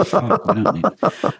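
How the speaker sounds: slow words broken up by real laughter; laughing. Real, not acted. Host laughing at being fooled by the rain sound effect. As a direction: laugh through it, caught out by the fake rain.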